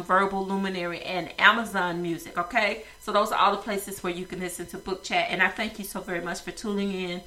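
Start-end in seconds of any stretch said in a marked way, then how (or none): 3.0-7.2 blocked nose from sinus trouble; stuffy nose. Real, not acted. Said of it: "I know I sound a little stuffy today".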